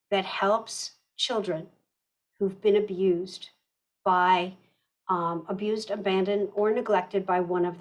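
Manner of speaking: slow, phrase by phrase; deliberately slow. Real, not acted. Presenter slows down for the interpreter, deliberately slow. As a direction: leave clear pauses between short phrases. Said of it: "I will speak more slowly".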